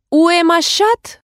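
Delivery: halting textbook French; schoolbook French. A narrator's reading. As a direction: sound out the French like a careful pupil. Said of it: "первую фразу из своего французского учебника".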